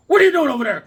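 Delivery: high, loud call across the yard; mock mom yell. Mom to son from the back door, mock yell. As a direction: yell it like a mother who caught you.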